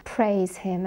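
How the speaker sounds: "Praise" stressed strongly, "him" light; emphasised. Shown as a demonstration. Teacher pointing out the closing stress. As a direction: lean hard on "Praise". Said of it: "trying to emphasise".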